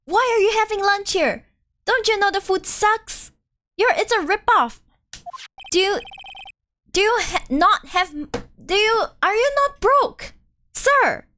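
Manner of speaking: incredulous scolding. Acted.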